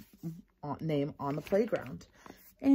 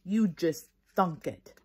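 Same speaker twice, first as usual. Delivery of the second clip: accusing; slower than usual. Acted. May angry at Junie B.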